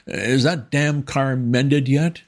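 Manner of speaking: high, slow, irritable toff; harsh. A narrator's reading. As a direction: demand it impatiently. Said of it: "he said harshly".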